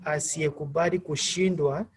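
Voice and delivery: "asiyekubali kushindwa" climbing on the last word; rising intonation. Shown as a demonstration. Teacher giving an example of a preposition, rising intonation. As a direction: lift the end of "kushindwa", leaving it unfinished. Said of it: "said with a rising intonation".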